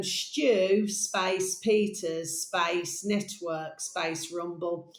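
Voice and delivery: very slow, word by word, spelling out a search; careful dictation pace. Shown as a demonstration. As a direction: read each term out slowly for typing. Dictating search terms slowly.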